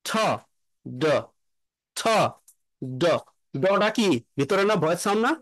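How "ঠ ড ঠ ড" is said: ঠ with no voice, ড voiced; voiceless and voiced pair. Shown as a demonstration. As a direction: contrast ঠ and ড. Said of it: "আমি কি বলছি".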